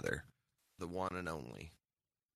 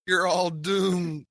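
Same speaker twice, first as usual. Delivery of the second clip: high, loud, slow prophet of doom; slow ominous raspy drawl; 10 semitones higher, 5 dB louder, slower than usual. Retold or imitated. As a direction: warn them they're all doomed, slowly. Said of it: "Crazy Ralph saying".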